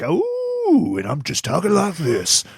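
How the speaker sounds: high, whooping radio DJ voice; Wolfman Jack. Acted. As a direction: whoop like a late-night radio DJ. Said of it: "doing my Wolfman Jack".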